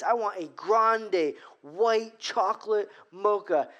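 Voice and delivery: slow, clipped, mildly irritated; mock irritation, slowed down. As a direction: grit it out at the barista. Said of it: "a little irritated in my voice".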